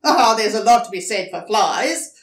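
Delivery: eager agreement. Acted. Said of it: "agreed Dingo".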